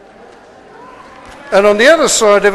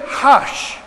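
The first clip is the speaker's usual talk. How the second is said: whispered hush; 2 semitones higher than usual. Real, not acted. Telling knowing pupils to be quiet.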